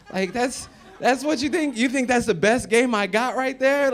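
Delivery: loud, high, laughing disbelief; laughing outrage. Real, not acted. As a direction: cackle at the insult. Indignant laughing at her insult.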